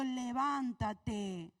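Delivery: "Levántate" stretched very slowly; angel's slow call to rise; slow command. Acted. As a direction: draw out "Levántate" like a gentle wake-up call. Angel wakes Elijah again.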